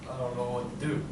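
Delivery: low, quiet, unsure mumble; lost student. Acted. Student up front acting, at a loss, quiet. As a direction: say it small, as a stuck pupil.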